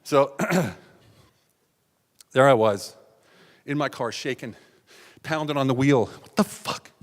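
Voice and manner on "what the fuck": hoarse whispered outburst; whispered, exasperated swearing; stunned curse. Acted. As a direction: curse under your breath in disbelief. Acting out himself pounding the wheel.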